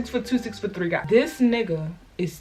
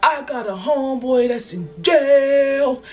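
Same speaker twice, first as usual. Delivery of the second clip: imitating crying; 3 semitones higher, slower than usual. Crying date explaining his jail fear, tearful. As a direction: talk through mock tears. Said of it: "he was crying".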